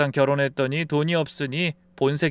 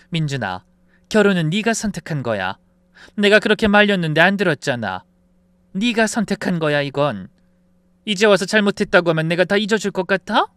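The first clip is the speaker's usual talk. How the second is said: firm, raised-voice scolding; stern rebuke; 3 semitones higher, 5 dB louder than usual. Acted. Mother refusing to forgive her son, stern and reproachful. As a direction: lay down the law to a grown child.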